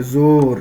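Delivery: زور said as "zor" with an o, not oo; majhool o vowel. Shown as a demonstration. Teacher giving a waw majhool example, زور said "zor". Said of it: "کھینچ کے نہیں پڑھتے ہیں".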